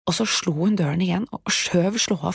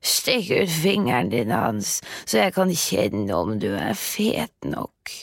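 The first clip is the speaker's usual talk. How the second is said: calling witch. Acted. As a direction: call into the pen, greedy.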